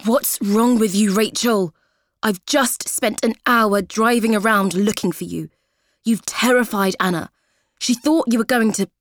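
shouting angrily. Acted. Ex-husband yelling at Rachel in a voicemail, furious. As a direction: rage down the phone at her. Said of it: "He's shouting angrily".

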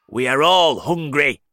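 high, loud centipede. Acted. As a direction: announce it loudly. Centipede speaks up.

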